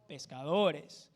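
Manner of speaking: pescadores drawn out slowly, syllable by syllable; teacher stretching out pescadores so it sinks in; slow stressed pescadores. Shown as a demonstration. Teacher stressing pescadores slowly for the class. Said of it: "Ellos eran pescadores".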